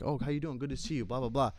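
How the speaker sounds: smooth and attentive like a businessman owner; a hint of slick restaurant owner; businessman host. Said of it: "they want you to be like a businessman".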